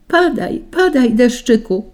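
high-pitched storybook call; high, beckoning cry to the rain. A narrator's reading. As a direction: call eagerly in little characters' voices. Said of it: "zawołały wnet grudki czarnej ziemi".

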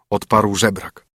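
ordinary delivery, nothing marked

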